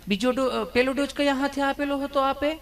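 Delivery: high, sugary nurse coaxing; nurse's voice. Retold or imitated. Nurse coos at a nervous patient, high and sugary. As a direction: raise it high and sweet like a doting nurse.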